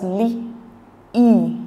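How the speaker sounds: "li" drawn out slowly on a long ee. Shown as a demonstration. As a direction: hold the ee vowel in "li". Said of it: "It's the long E sound".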